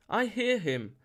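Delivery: high-pitched ecstatic cry; excited cry. A narrator's reading. Morgana repeats it to the circle, high excited cry. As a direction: call it out high and falling. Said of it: "she cried".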